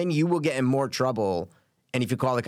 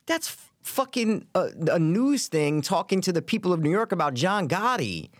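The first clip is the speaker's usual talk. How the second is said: high, eager recognition; light up as the clip clicks; excited; 5 semitones higher than usual. Real, not acted. Friends recognize the Gotti clip, excited and high.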